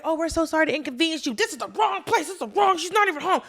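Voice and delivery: over-polite, hammed-up excuse-making; flustered apology. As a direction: imitate a grovelling henchman backing off. Acting out henchmen's flustered apology.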